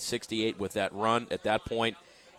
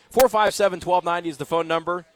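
loud announcement; 7 semitones higher, 8 dB louder than usual. Real, not acted. Loud phone number plug.

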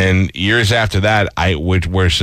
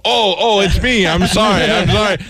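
much higher, flustered mock apology; over the top; 11 semitones higher than usual. To the school on the phone, a much higher, flustered mock apology. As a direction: pile on a fake fluster. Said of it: "I'm just being over the top".

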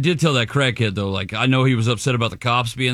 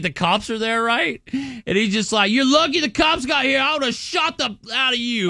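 retold angry threat; 8 semitones higher than usual. Retold angry father-in-law threatening crackhead.

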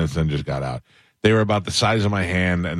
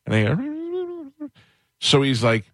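loud dad quote; 10 semitones higher than usual. Retold or imitated. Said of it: "This is happening at great volume".

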